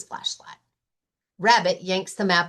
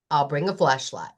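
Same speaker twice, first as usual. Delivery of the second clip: lightly voiced Lion; 6 semitones lower than usual. Lion, low voice.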